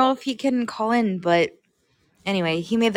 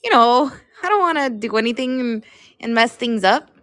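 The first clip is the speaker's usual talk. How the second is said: terrible Aaron; 4 semitones higher than usual. Retold or imitated. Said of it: "That was a terrible Aaron".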